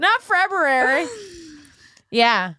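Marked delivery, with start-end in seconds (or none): 0.0-1.1 February drawn out high, with both Rs sounded; slow, high-pitched mock dismay on February; mock over-correct pronunciation. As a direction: stretch February into Feb-roo-rary.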